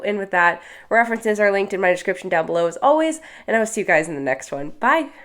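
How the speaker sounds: stuffy nose from being sick; nasally voice. Real, not acted. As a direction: speak through a blocked, nasal nose. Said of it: "Sorry for my nasally voice today".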